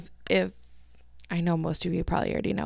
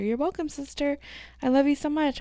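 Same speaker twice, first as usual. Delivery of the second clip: high, sing-song fondness; high-pitched, doting reply; playful affection; 8 semitones higher than usual. Real, not acted. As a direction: coo it to your sister. Playfully answering sister's text aloud.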